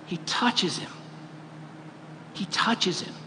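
soft, hushed reveal after the build; hushed emphasis. Real, not acted. Preacher revealing Jesus's compassion to the congregation, hushed. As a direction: drop to a quiet, weighty repeat.

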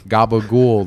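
Bronx Italian. Retold or imitated. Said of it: "They talk like that".

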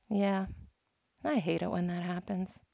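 lightly voiced gentle teacher, unbothered; calm and loving. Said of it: "he's just so calm and so loving".

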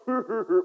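short imitated jeering laugh; mocking laugh. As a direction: put on a brief laugh of ridicule. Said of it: "we mock them".

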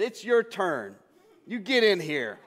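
chuckling while calling her in; laughing invite. Retold or imitated. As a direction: laugh through the playful summons.

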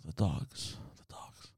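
very faint, low whisper; imitated dream mumble, barely there; sleep talking. Dreaming boyfriend telling girlfriend of dogs, whispered sleep talk. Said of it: "I'm dreaming".

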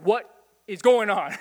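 loud, slow, astonished exclamation; bewildered crowd asking what happened; amazed. Retold or imitated. Everyone amazed at adoption news.

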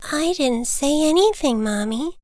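high little voice, easing down; innocent child bird. Acted. Little Bird denies swearing to his mother, innocent. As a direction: protest innocence as a small child.

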